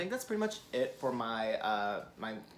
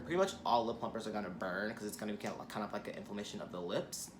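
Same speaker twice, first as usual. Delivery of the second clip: fast, rushed explanation; talking fast; faster than usual. Real, not acted. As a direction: rattle it off quickly. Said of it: "I feel like I'm talking really fast".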